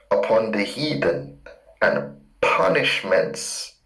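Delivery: slow, weighty reading of a psalm, words drawn out; solemn scripture reading. Acted. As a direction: read the verse like a preacher savouring each word. Reads the psalm aloud.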